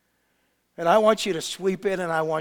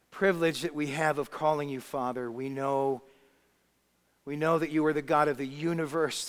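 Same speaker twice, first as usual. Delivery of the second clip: measured, lower-pitched address to God; steady, earnest praying voice; congregational prayer; 3 semitones lower than usual. Real, not acted. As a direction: lead a reverent prayer, pausing between phrases.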